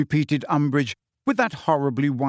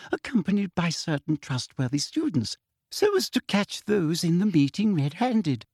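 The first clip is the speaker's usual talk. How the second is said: sugary, high-pitched toad-like sneer; prim, falsely sweet official; Umbridge voice; 4 semitones higher than usual. Acted.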